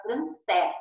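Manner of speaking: francês with an open final E. Shown as a demonstration. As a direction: say francês as if written with "é". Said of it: "Se fosse o acento agudo".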